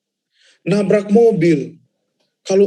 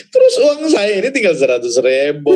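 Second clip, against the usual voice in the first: laughing cry; 4 dB louder than usual. Real, not acted. Laughing through money trouble.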